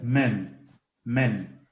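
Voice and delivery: men con una E común como la del español; the English vowel in men. Shown as a demonstration. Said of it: "una E común". (men con E común)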